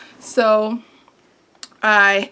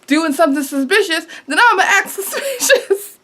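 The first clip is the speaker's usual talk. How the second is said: laughing; 5 semitones higher than usual. Real, not acted. Laughing at her own plan.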